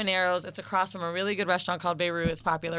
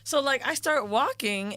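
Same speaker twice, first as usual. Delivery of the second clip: ordinary talk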